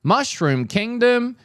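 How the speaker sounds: slow, lightly mocking flat read of Mario; a hint of unenthusiastic Chris Pratt Mario; flat Mario impression. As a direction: mimic a bored hero line. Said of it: "he's just going".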